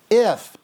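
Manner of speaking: "If" punched high and loud; emphatic stress. Shown as a demonstration. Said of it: "I'm gonna emphasize a couple words here".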